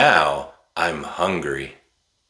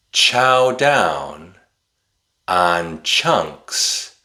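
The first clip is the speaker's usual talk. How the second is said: a little faster; much slower than usual. Shown as a demonstration. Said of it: "a little faster this time".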